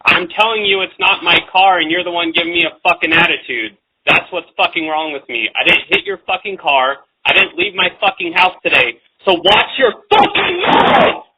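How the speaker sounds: building from firm to shouting; calm turning angry. Real, not acted. Argument with caller escalates.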